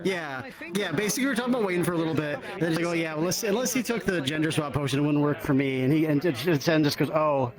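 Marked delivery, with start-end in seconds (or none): none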